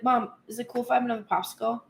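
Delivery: confident casual ask. Acted. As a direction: ask mom casually and fast, no begging. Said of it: "not come at me from a pleading voice, but just be like".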